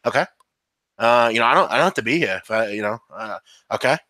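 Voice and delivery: grudging sports radio veteran, lightly voiced; Mike Francesa. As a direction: ramble with many pauses and fillers. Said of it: "I'm working on a Mike Francesa".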